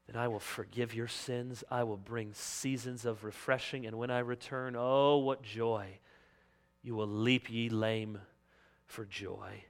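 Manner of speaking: low, soft, reassuring; tender promise. Acted. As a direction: speak a hushed promise of comfort. God's promise, voiced tenderly.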